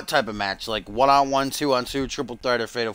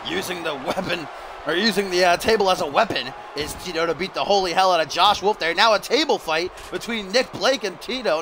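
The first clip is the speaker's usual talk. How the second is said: animated wrestling match commentary; lively ringside announcer voice; play-by-play; 3 semitones higher than usual. Pretend. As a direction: call each move as it lands.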